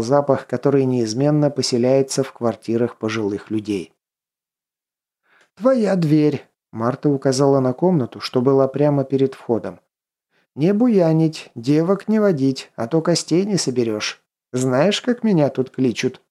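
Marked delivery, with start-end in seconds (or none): 5.5-16.2 lightly voiced menacing old witch; witch crone warning. Witch warns lodger. (грозная старая ведьма, слегка)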